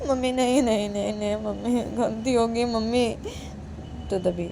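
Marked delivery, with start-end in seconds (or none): 0.1-3.1 very high, alarmed then pleading; frightened daughter. Acted. Daughter scared of her mother's punishment, very high and frightened. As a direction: panic at the threat. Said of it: "काजल बोलती".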